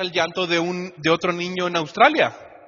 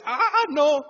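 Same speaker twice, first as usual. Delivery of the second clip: desperate outburst; 5 semitones higher, 4 dB louder, slower than usual. Retold or imitated. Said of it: "Y dice".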